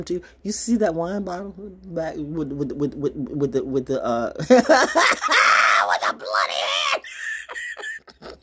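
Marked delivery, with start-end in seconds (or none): 4.4-8.4 loud, drawn-out words through a cackle; cackling. Pretend. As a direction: burst into a big laugh on the words. Cackles about a bloody hand.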